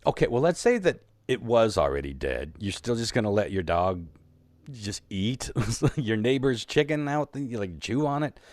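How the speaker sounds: exasperated rant. Retold or imitated. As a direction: vent the outrage, rising to the end. Ranting at neighbor's excuse.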